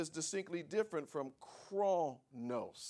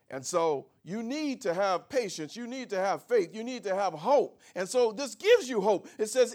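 rising, louder preacher's exhortation; preaching; 5 semitones higher, 8 dB louder than usual. Acted. Pastor urging his congregation to have faith, building preaching voice. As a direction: press the congregation to hold on.

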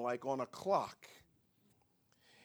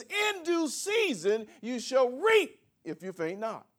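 verse cried out much higher and louder; preached scripture; 8 semitones higher, 7 dB louder than usual. Shown as a demonstration. Pastor proclaiming the verse to the congregation, high and loud. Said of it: "it sounds good as it is".

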